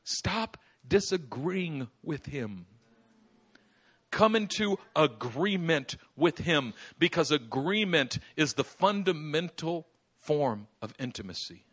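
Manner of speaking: slow, measured command; slow solemn preacher plea; slow exhortation. Real, not acted. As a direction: lay each word down deliberately. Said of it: "preacher's slow exhortation".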